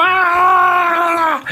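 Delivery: high whoop of a wild dancer; imitated party yell. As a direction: let out a wild party shout. Client screams while dancing alone.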